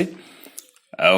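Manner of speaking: औ held very long and slow; drawn-out औ. Shown as a demonstration. Teacher shows students the pluta औ, slow and long. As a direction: stretch औ over three beats. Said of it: "जिस प्रकार से".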